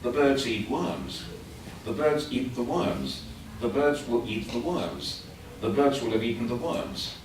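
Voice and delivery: birds and worms hit on an even beat, small words squeezed between; a classroom rhythm drill with the birds and worms beats evenly spaced; stress-timed rhythm demo. Shown as a demonstration. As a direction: keep the beats steady while the sentence grows. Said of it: "So I would go like".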